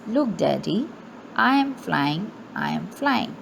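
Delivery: ordinary talk, nothing marked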